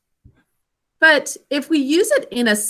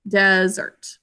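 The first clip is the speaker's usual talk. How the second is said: "desert" with the stress on the first syllable, DEsert; 3 semitones lower than usual. Shown as a demonstration. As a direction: lean on DE and let "sert" fall away. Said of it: "because we pronounce it desert".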